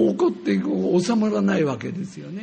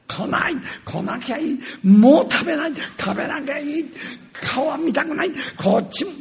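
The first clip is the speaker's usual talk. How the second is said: mock angry shouting; 8 semitones higher than usual. Father shouting back at his son during a quarrel, mock fury. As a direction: fling it back like a stubborn father. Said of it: "なんてこうなっちゃうんですよね".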